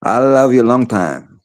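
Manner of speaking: high and drawn out, slow and teasing; mock movie line. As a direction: stretch each word out playfully.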